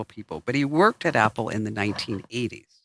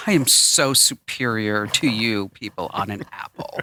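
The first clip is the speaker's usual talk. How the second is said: smug superior; 4 semitones lower, slower than usual. Retold or imitated. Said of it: "you'd be like".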